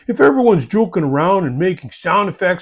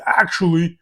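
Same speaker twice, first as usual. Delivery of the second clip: pedantic actually. Retold or imitated. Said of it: "If you come in hot with".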